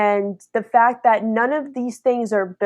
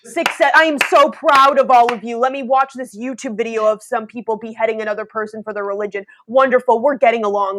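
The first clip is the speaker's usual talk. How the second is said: mock-proud congratulations, punched up; sarcastic praise. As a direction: gush with fake approval. Sarcastic praise voiced as Jesus.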